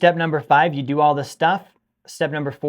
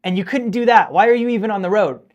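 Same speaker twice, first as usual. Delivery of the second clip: frustrated rant; 3 semitones higher, 5 dB louder than usual. Retold or imitated. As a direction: drag out each word at the idiot in traffic. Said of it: "I get so frustrated. I'm like".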